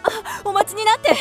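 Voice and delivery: high, urgent little cry; anxious pleading. Acted. Woman stopping the departing suitor, anxious. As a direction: call him back before he goes.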